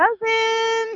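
shrill, very high, loud hollering yell. Calling out in character, searching for a lost bird: yelling for someone. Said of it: "while he is yelling for the Fugelbird".

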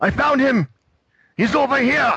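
very high-pitched shouted yell. The game master voices a soldier near Max shouting to the others: shouting. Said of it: "one of them near Max shouts in German".

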